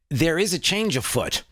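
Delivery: a light put-on British lilt; hint of a British accent; mock British. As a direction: say it like a Brit, just a touch. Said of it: "That was, that was very British".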